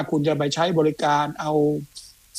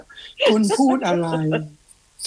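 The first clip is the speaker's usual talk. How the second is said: mock Siri voice; 3 semitones higher, much slower than usual. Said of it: "สิริ".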